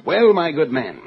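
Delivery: a lightly put-on upper-class English accent. Crook greeting the stranger in a mild put-on English accent. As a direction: play the genteel English gentleman. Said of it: "Don't forget your accent".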